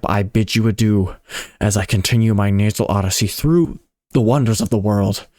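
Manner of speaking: lightly nasal, delighted call to the crowd; excited nasal Biggles. Acted. Biggles asks the audience, rising excitedly.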